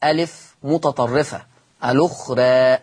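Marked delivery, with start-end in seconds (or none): 1.8-2.8 الأخرى ending between "raa" and "ree"; "al-ukhree", final a fronted; taqlil. Shown as a demonstration. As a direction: tilt the last vowel of الأخرى toward e. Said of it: "مقلل ليه قولا واحدا؟".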